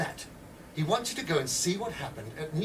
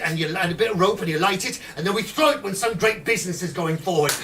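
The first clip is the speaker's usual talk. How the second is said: higher, louder, gleeful explaining; eager plotter; 4 semitones higher, 5 dB louder than usual. Acted. Edwards gleefully explaining grenades to recruits, loud and eager. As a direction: rattle off the bomb recipe with relish.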